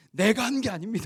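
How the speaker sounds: high, loud, exaggerated, overblown outcry.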